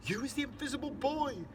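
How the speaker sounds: high-pitched, amazed exclamation; thrilled discovery, voice soaring; squiffy with excitement. A narrator's reading. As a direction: marvel aloud, pitch way up. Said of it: "squiffy with excitement, and he says".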